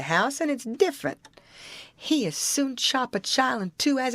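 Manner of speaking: lightly voiced Jim in Southern dialect; lightly acted folksy debater; Jim, insistent. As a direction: argue the point stubbornly in dialect, pitch jumping about. Narrator voices Jim arguing in dialect.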